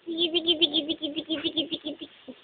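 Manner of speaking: quiet playful nonsense chant. Real, not acted. Soft nonsense sounds for baby.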